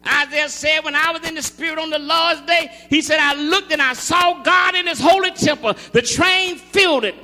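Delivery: loud scripture proclamation building to a high shout; fervent, driving preacher; full-force preaching. Acted.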